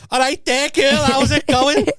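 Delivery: loud, slow, hammed-up Scouse greeting; Scouse lad. Mimicking the Tranmere husband meeting her parents, in a loud, hammed-up Scouse accent. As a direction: belt it out like a cheery Liverpool lad. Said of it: "this guy walks in like".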